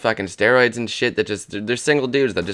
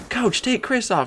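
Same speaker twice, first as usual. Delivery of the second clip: mock loud yell; 14 semitones higher, slower than usual. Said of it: "Here, watch this".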